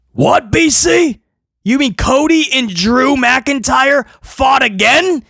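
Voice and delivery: a hint of a sarcastic fan voice; mock viewer. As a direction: play a fake-surprised viewer. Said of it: "you act like you've seen it".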